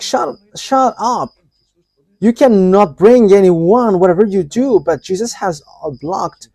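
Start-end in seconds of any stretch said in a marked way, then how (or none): 0.0-4.8 a mild mock scold, louder on the second line; imitating an angry threat. A preacher mimics the spirit's angry threat to the group. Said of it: "he is so angry against us".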